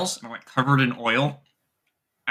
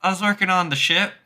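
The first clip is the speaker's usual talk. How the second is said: lightly voiced Southern accent, pitched up; a higher, light Southern lilt; Southern drawl; 5 semitones higher, faster than usual. Girl explaining the oil on her, in a light Southern drawl. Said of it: "draw Southern accent".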